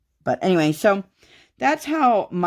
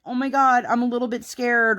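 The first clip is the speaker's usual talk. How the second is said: higher, mock-timid little whine; mock mild fright; 8 semitones higher than usual. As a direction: play it as a tiny, silly fear, pitched up. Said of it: "not like".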